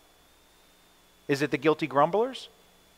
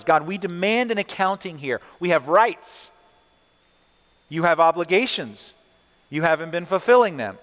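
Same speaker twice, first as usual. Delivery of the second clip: demanding complaint; 3 semitones higher than usual. Retold or imitated. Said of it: "Legal-like charges".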